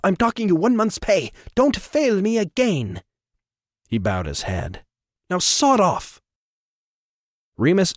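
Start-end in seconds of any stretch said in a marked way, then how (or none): 0.0-3.0 high, cold reprimand; stern boss. Acted. Trevor reprimands Remus. 5.3-6.2 high, cold reprimand; stern boss. Acted. Trevor dismisses Remus.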